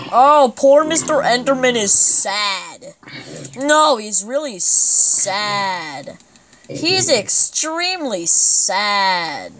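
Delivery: slow, drawn-out fake pity; hammed-up sorrow for a sad mob; mock sad. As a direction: lay on the sympathy slowly.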